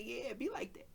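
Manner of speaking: knowing whisper. Retold or imitated. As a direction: breathe it out knowingly. Knowing aside to sister.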